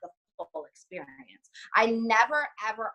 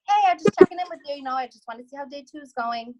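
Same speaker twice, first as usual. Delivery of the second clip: excited; 6 semitones higher, 7 dB louder than usual. Retold or imitated. Cheery check-in message to customer.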